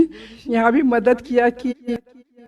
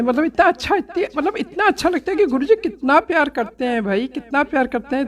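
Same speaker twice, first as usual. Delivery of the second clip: overjoyed; 4 semitones higher than usual. Real, not acted. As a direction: voice lifting high with delighted laughter. Overwhelmed by Guru ji's love. (खुशी से हँसते हुए, ऊँची आवाज़ में)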